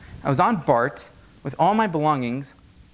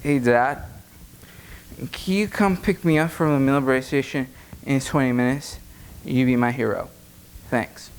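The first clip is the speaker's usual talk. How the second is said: fake sober. Drunk son faking sobriety on the phone to Dad. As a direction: hold it together, sound sober. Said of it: "summon up all my sobriety".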